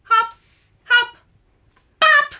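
high bright calls; playful high shout. Acted. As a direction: pop out with each word. Louise pops out bopping.

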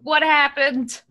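slow, drawn-out confused question; dazed question. Acted. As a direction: ask slowly, just back from the dead. Revived character asks, dazed.

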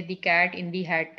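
The cat in the hat broken into dictionary chunks, slowly; slow segmented example. Shown as a demonstration. Teacher showing students how matching cuts the phrase. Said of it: "dictionary के साथ match करके".

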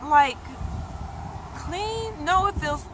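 squealing over her own tight skin; amazed excitement. Retold or imitated. Retelling her morning surprise, high excited squeal. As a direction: voice shooting high and loud, giddy disbelief. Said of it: "I was like".

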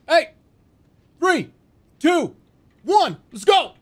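hype countdown. Acted.

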